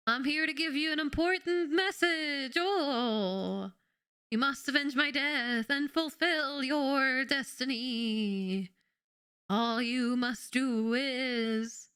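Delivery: slow, solemn dying prophet; overacted death scene. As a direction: drag out the dying words. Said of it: "spice stuck in my throat".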